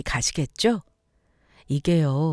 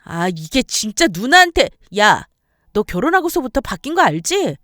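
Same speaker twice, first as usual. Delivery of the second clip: put-on loud, higher accusing older sister; angry scolding; 4 semitones higher, 5 dB louder than usual. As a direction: lecture him furiously, voice raised. Sister scolds her younger brother. (높고 크게 따지듯이)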